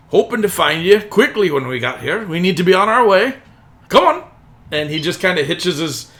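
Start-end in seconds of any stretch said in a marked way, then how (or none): 0.1-4.2 louder, higher driver building to a shout; hurried carriage driver. Acted. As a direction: urge them onto the road. Driver hurries the party along.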